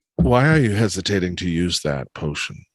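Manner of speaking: quiet, hushed, soft whisper. A character quietly asks Juniper a question while others overhear, whispering quietly. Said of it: "she's just whispering quietly".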